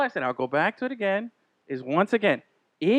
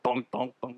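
mic thump sounds; 8 semitones lower, 11 dB quieter than usual. Retold or imitated. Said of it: "I hear what that sounds like".

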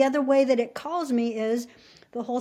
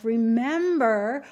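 voice of the mountains; slower than usual. Retold or imitated. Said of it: "whole download from all the apus".

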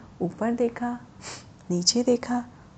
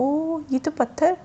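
higher, drawn-out amazed realisation; astonished; 6 semitones higher than usual. Acted. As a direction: let the surprise stretch the first sound. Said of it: "उसको बड़ा आश्चर्य हुआ".

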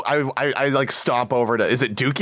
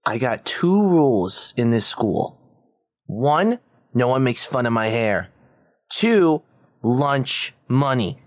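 bully voice; slower than usual. Acted. Bully threatens kid in character.

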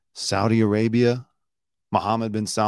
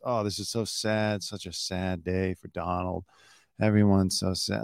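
mock sad; 4 semitones lower, 4 dB quieter than usual. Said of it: "they kept going on about how sad it is".

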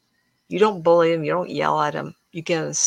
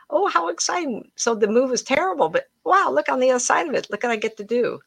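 excited; 7 semitones higher than usual. Real, not acted. Delighted about new home.

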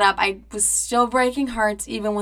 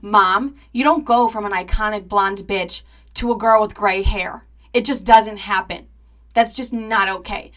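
loud indignant protest; indignant rant; 5 dB louder than usual. Retold or imitated. Arguing with mom about the gray hair, loud indignant rant. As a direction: insist it's an outrage. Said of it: "And I was like".

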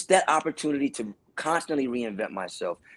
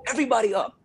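hype call; 11 semitones higher, faster than usual. Retold or imitated. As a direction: rouse the audience to stand. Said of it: "I'm like".

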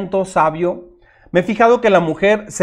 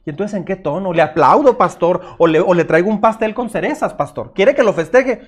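sarcastic church member. Retold or imitated. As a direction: sneer it back at the pastor, lightly. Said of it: "y adentro está pensando". (feligrés sarcástico imitado con burla)

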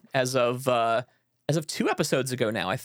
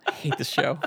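laughing. Real, not acted. Laughing mock complaint.

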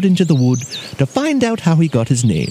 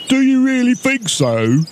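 high, hopeful giant voice; higher-pitched coy ogre character; flattered ogre; 9 semitones higher than usual. A narrator's reading. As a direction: ask as an ogre won over by praise.

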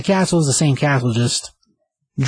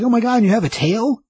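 high, thrilled gasp of a question; a fan girl spotting a tail; excited squeal; 9 semitones higher than usual. Retold or imitated. Dawn thrilled at Hellboy's tail, high excited squeal. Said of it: "she's super excited at this point".

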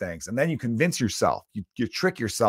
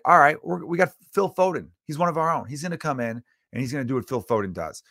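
excited inner hype; 5 semitones higher than usual. Retold or imitated. Hopeful thoughts watching the final.

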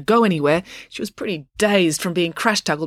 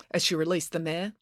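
usual speaking voice

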